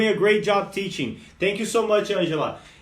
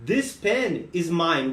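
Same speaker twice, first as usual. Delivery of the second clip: slow, careful and spelled out; slow teaching demo; slower than usual. Shown as a demonstration. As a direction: lay out each word for learners. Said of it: "Agora eu falo". (devagar, bem pausado)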